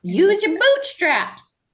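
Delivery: grumbling out of touch boomer; high, slow, gruff old-timer; old-timey bootstraps voice. Pretend. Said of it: "Was that your boomer voice?".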